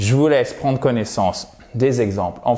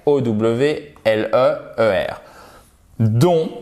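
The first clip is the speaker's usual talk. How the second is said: ordinary delivery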